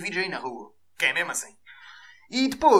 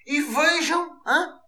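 higher mock voice of a proud fool; mocking the filmer; 7 semitones higher than usual. Vlogger mocking a man filming himself, high mock voice. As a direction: play the idiot showing off his own blunder. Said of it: "naquela do".

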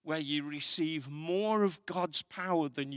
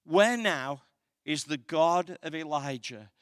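louder cry of Elisha at the river; proclaiming Elisha; 5 dB louder than usual. Retold or imitated. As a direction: call out the question across the water. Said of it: "says this".

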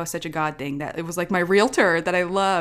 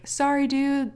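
soothing parent; 8 semitones higher than usual. Retold or imitated. Parent voiced soothing her child.

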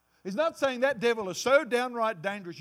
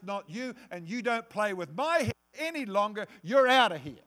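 firm commanding rebuke that builds louder to the end; defiant rebuke; 3 dB louder than usual. Pretend. Believer standing up to the devil in a nightmare, defiant command. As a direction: order the devil out of your head. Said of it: "stand up in the middle of your nightmare and say".

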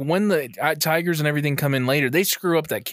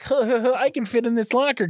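put-on breathy girl voice; 6 semitones higher than usual. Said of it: "she's like".

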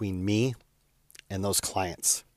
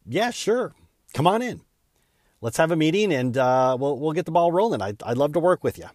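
much higher, bright eager welcome; eager yes; 6 semitones higher, 3 dB louder than usual. Retold or imitated. Telling a new client on the phone, eager and high-pitched. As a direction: jump at the chance, pitch way up.

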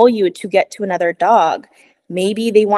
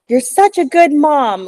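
put-on higher, louder, sing-song little girl praising mom; sweet childlike praise; 8 semitones higher, 4 dB louder than usual. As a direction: chirp it brightly like a proud kid. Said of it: "the energy behind the way she was saying it".

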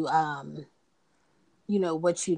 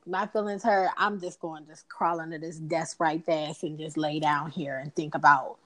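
mock sulk with laughter. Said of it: "I would be like".

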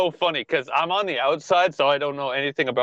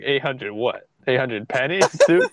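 mock disbelief. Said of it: "I was like".

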